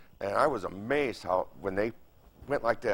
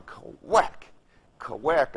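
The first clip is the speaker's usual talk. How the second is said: blade noise; 2 semitones higher, 3 dB louder than usual. Retold or imitated. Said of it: "the blades were going".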